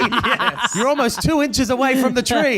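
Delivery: squeaky high teasing voice; mock worried squeak. Teasing a friend "on a limb.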